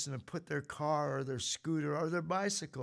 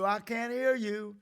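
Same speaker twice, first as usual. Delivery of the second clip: mock sergeant yell; 4 semitones higher, 4 dB louder than usual. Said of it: "sergeant yelling at you".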